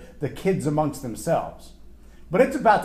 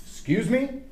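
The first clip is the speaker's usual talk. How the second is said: indignant "excuse me"; 8 semitones higher than usual. Retold or imitated. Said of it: "you're like".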